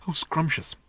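high, bubbling, eager robot voice; gushing little robot. A narrator's reading. The flying robot begging Ford to sit on his lap, high and gushing. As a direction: gush like a lovesick little machine.

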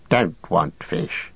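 slow, wheedling creature voice, half-hissed; Gollum, sulky. Acted. Captive creature sulkily refusing food, slow whining voice. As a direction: sulk like a starved little creature refusing.

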